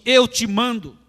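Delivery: a loud, high command raising the dead; commanding order. Acted. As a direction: give an order, not a request. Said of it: "Jesus deu uma ordem". (ordem de comando, alta e forte)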